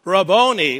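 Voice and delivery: an understated retold scream; mild retold cry. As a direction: call out Rabboni with mild force. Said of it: "she screams out".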